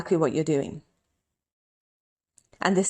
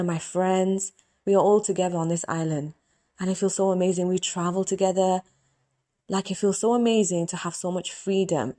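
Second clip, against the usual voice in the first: grateful prayer. Shown as a demonstration. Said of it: "This is how I make my prayers".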